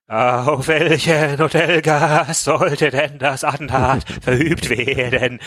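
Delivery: hammed-up frightened quaver, dragged out slowly; vibrating voice. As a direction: let the voice tremble as she asks in fright. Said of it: "fragte sie mit vibrierender Stimme".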